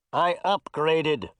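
slow, self-satisfied knight; smug villain. Acted. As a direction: drawl it with pride.

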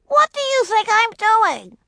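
put-on high, loud child's protest, slowed; a girl raising her voice at her parents. A narrator's reading. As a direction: yell it back, indignant and drawn out. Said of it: "Ramona raised her voice".

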